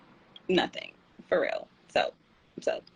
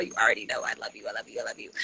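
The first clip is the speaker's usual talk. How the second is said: low, soft, fast I love yous; tender murmur; 9 semitones lower, 4 dB quieter, much faster than usual. Real, not acted. Host softly telling a friend she loves her. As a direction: murmur it fondly to a close friend. Shout out to Marilia.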